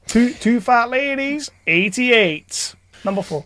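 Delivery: slow drawn-out bingo call; bingo caller. Pretend. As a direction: announce numbers like a bingo caller. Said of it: "I'd make a good bingo caller".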